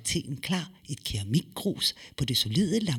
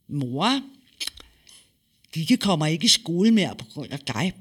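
put-on boy's voice; 3 semitones higher, 4 dB louder than usual. Son reports to mother.

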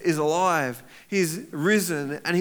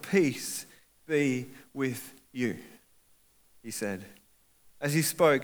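scripture reading; 3 semitones lower than usual. Acted. Pastor reading the Bible passage to the church, measured reading.

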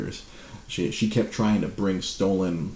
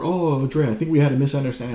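mild smarmy apology; 6 semitones higher, 4 dB louder than usual. Retold or imitated. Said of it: "he calls my store".

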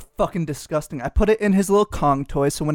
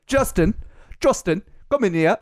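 hammed-up attempt at a British accent; mock British boss; bad British accent. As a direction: do John Boyega's British accent badly. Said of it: "why is it like John Boyega".

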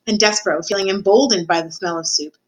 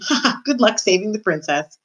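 mocking laugh; 3 semitones higher than usual. Cook laughs at the quest.

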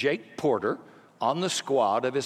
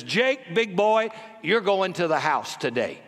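coach hyping up; 3 semitones higher than usual. Retold or imitated. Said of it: "points to Jake and says".

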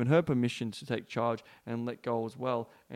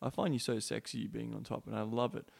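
gentle; 4 dB quieter than usual. Retold or imitated. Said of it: "stroke her head really gently and go".

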